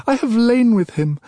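high, loud anguished shout of it. Acted. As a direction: scream it in fury. Raging outcry.

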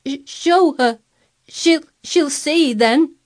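high, loud, stuttering sobs; gasped between sobs. A narrator's reading. Sobbing boy ordering nurse to show Mary, gasping. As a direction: sob it out haltingly. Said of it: "he gasped out between two sobs".

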